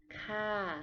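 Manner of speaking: ka with a falling tone. Shown as a demonstration. Teacher models the female polite particle ka. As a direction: let the pitch drop on ka. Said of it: "with a falling tone".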